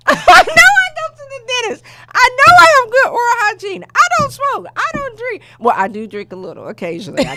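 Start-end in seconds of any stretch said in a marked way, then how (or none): 0.1-5.4 much higher and louder, laughing through it; laugh-cry the protest out fast; telling how she took the diagnosis, high laughing protest; laughing disbelief. Retold or imitated. Retelling her disbelief, laughing.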